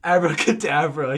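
loud spell-casting cry; yell. Acted. Vampire casts at Snape and Lupin, yelling. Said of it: "he yelled at Snape and Lupin".

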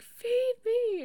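a sudden high, loud growl of a starving stomach; hungry stomach voice. Retold or imitated. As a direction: play the stomach demanding food, high and loud. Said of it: "and it's like".

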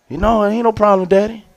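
soft, innocent answer to Daddy; understated retold kid voice; little boy's reply. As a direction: mimic a small son speaking quietly. Voicing his young son's reply.

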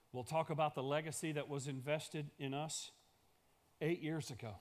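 ordinary talk

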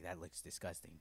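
low, soft, composed understatement; calm butler. Retold or imitated. Butler reacting to a frostbitten foot, calm imitation. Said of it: "he was very calm".

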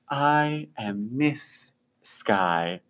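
slow, soft, dreamy floating voice; airy air genasi. Acted. Floating air genasi teacher introducing herself, slow and soft. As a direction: drift through it like a breeze. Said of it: "and she says".

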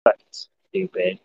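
snide retort. Retold or imitated. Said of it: "I was like".

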